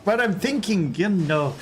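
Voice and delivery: put-on Scottish accent that slides into Irish; attempted Scottish accent. Streamer practising a Scottish accent live, Irish-leaning Scottish accent. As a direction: reach for Scottish and land half Irish. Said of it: "The Scottish accent is".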